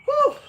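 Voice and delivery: high-pitched puff of exhaustion; tired whew. Real, not acted. Streamer admitting he's tired to viewers, tired whew. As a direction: blow out a real winded whew. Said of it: "I'm definitely tired".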